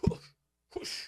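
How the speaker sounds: soft whoosh of an inside block; whoosh sound. Shown as a demonstration. Showing viewers a block with a mouth whoosh. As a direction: breathe out a quick whoosh per block. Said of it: "This is the whoosh".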